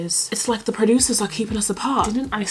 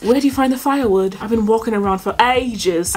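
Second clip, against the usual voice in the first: British accent. Shown as a demonstration. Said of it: "I love when British say that".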